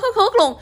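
high, mock sobbing sounds; imitated sobbing. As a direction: squeak out the sobs in fun. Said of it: "chị khóc hướt".

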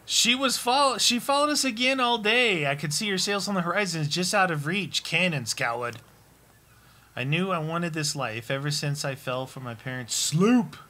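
dramatic reading of a diary; journal reading. Acted. Friend reads the pirate journal entry aloud, lightly dramatic.

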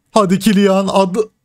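egging the striker on harder; rising excited plea; urging on. Real, not acted. Urging player on in match.

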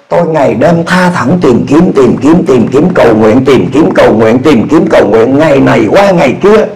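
ordinary talk

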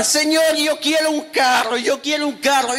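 a hint of a crying child's whine; whining childish prayer. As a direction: beg for a car like a toddler. Childish believer begging God.

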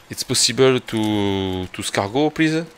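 slow, halting English in a French accent; thick French accent. Real, not acted. Streamer trying English for an escargot, thick French accent. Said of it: "Avec mon accent de fou".

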